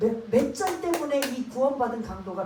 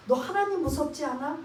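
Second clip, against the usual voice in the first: mild scolding; 3 semitones higher, 3 dB louder than usual. Retold or imitated. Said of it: "야단 꾸짖고 있는 거예요".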